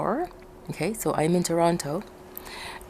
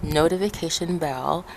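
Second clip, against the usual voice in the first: numb mouth. Real, not acted. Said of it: "my mouth is numb".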